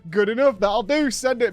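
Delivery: lightly acted easy-to-please director; hasty approval. Director accepting a voice actor's bad take, hastily approving.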